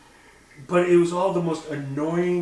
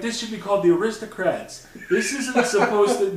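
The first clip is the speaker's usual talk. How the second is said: ordinary talk, nothing marked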